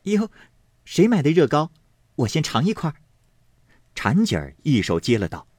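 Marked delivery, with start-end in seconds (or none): 0.0-3.0 put-on a higher, pert young girl's voice; playfully grabbing for the cake. A narrator's reading. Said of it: "方官便细道". (俏皮的小丫头)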